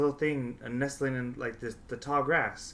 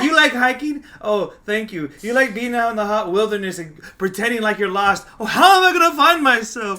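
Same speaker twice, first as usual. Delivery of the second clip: much higher and louder, sarcastic sing-song; mocking hikers; 7 semitones higher, 11 dB louder than usual. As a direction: lampoon a hiker's self-discovery.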